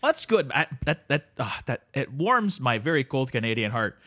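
sleepy Canadian drifter greeting his pal; Canadian accent. Acted. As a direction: play the neighbourly Canadian couch guest. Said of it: "Canada Dave".

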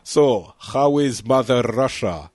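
a light, hammed-up Russian accent; mock Russian accent. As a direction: tease the guest with a hint of a Russian accent. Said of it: "Sorry, I had to do it once".

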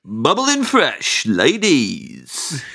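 slow, swooping amateur garage MC; garage MC attempt. Shown as a demonstration. Comedian having a go on request, garage MC voice. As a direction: drag out each word, sliding up and down. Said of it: "have a go at the U K garage voice".

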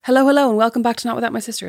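zip through the intro again; quick redo of greeting. Shown as a demonstration. Host repeating her new catchphrase intro, fast. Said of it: "That's my new thing now".

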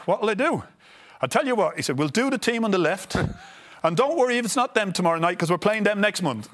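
high, loud, laughing through the manager's words; laughing impression. Telling the podcast host about Jack, laughing throughout. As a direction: chuckle through the retold quote.

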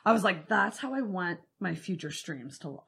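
soft, gushing fan confession; cheesy gushing. Acted. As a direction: gush over them, laying it on. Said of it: "we're gonna go cheesy".

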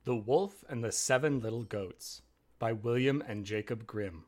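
measured fairy-tale read-aloud; story narration. A narrator's reading.

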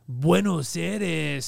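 "Buenos Aires" drawn out very slowly; slow Castilian "Buenos Aires"; Spanish accent. Retold or imitated. Showing how Spaniards say it, slow Castilian accent. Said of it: "They're like".

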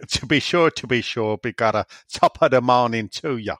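a light mock Irish accent; half-hearted stage Irish accent, tongue in cheek. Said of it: "can you have a ... Irish accent".

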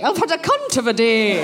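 put-on prim Edinburgh schoolmistress accent, lightly done; lightly posh Scottish, laughing; posh Scottish Miss Jean Brodie. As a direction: savour it like a genteel Scottish teacher. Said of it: "I'm doing kind of my Miss Jean Brodie".

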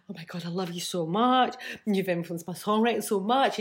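lightly acted starstruck kid; gushing twelve-year-old. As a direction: gush like a young fan, half-acted. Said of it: "turned into, like, a twelve-year-old".

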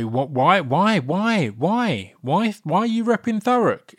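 excited. Retold or imitated. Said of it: "I'm gutted I didn't get to say".

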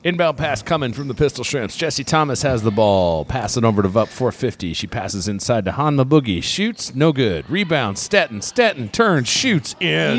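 quick game-call; calling the basketball game; play-by-play. Acted. Live play-by-play.

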